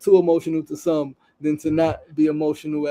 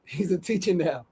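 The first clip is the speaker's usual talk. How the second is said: teary laugh on the words; laughing through tears; 6 dB quieter than usual. Real, not acted. Host moved by the story, laughing emotionally. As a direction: let a moved laugh break in. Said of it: "This shit has got me crying".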